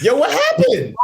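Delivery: high laughing question. Retold or imitated. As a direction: ask it through a laugh. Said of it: "I'm looking at them like".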